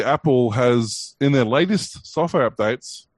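sarcastic drawl. Real, not acted. Sarcastic about old feature.

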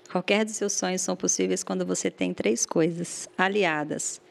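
motivational quote. Shown as a demonstration. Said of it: "essa vai a frase".

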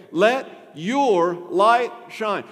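each word drawn out slowly, YOUR leaned on hard; stress on your. Shown as a demonstration. Preacher presses the command on each listener, stress on your. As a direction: punch "your" loudly in a very slow "Let your light shine". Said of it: "Not let Hoffmantown's light shine".

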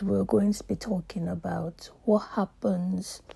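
hoarse, cracking voice breaking into whisper; strained voice slipping between registers. Real, not acted. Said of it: "Pardon my voice".

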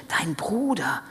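breath-filled whisper full of pride; proud whisper. A narrator's reading. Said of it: "flüsterte der Vater voller Stolz".

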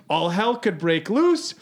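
reading out his warnings in a mock-grave voice; quoting Paul in a put-on voice. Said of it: "Paul continues".

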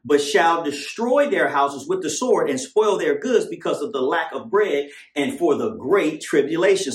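slow, weighty reading of verses; slow scripture reading. Acted. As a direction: read the verse out slowly.

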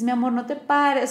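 put-on gentle parent coaxing a child; loving. Shown as a demonstration. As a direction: say it tenderly, without yelling. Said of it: "cuando tú hablas con amor".

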